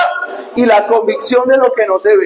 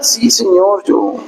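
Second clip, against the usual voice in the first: abashed reply. Retold or imitated. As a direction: act a sheepish, reluctant answer. Peter's abashed second answer.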